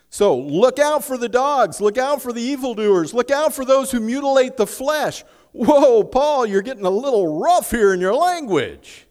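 high, loud pulpit warning; shouted sermon warning; preaching at full force. Acted. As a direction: thunder the warning against the dogs.

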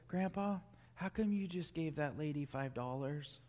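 a hint of a child's voice; curious grandchild. Grandchild voiced in sermon example.

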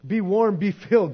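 a touch of brushing off; brusque dismissal. Retold or imitated. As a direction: shoo them away firmly. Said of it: "Call the church instead".

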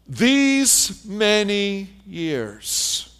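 very slow, each word stretched out in grievance; resentful drawn-out complaint. Retold or imitated. Older son airing his grudge at his father, slow and bitter. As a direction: drag the words out like a sulking son. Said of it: "he looks at his dad and he says".

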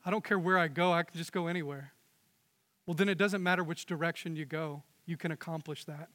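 hushed, trailing off to nothing; quiet. Acted. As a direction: let it sink in, fading. Quiet reflective repetition.

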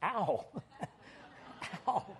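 soft, pretend "ow" with a laugh; mock pained ow. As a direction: fake a small yelp of pain, chuckling. Mimics banging head, laughing.

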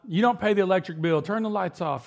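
mock dad ordering the kids about; light impression of a nagging father; imitating dad scolding. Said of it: "my dad used to rail us about that".

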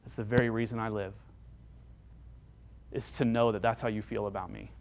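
soft, low private confession; inner thought. Acted. People-pleaser secretly relishing praise, hushed inner voice. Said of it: "what we're thinking in our mind".

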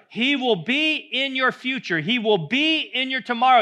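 loud, high, building proclamation; preaching at full force. Acted. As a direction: hammer each line home to the congregation. Climactic preaching on God's throne.

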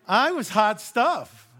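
hammed-up boast about being hot stuff; mock boast. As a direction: puff up jokingly. Self-mocking boast.

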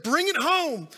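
high, loud cheering teacher; fired-up teacher. Retold or imitated. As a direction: urge him on to the punchline. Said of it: "by now the teacher was to her feet".

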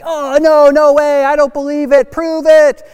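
put-on loud, high chorus of disbelieving kids; doubting kids. Kids challenge the teacher's glove claim, loud mock disbelief. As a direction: cry out like kids daring the teacher. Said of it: "all the kids were like".

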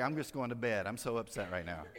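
low, downcast grumble; unhappy. Acted. Weary traveler announcing bedtime at Grandma's, unhappy. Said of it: "you ain't happy".

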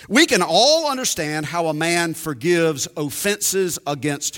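measured reading of a quoted passage; reading aloud. Acted. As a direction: read the book passage aloud with weight. Reads Lewis aloud.

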